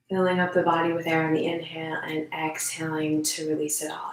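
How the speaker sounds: calm, unhurried meditation guide; measured guidance with room to breathe; guided meditation. Real, not acted. Leads a standing meditation.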